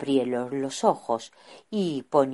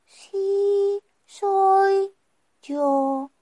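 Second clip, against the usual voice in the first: put-on gentle higher young voice; soft voice; 4 dB louder, much slower than usual. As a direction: answer softly and kindly. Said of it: "dijo con voz suave el joven".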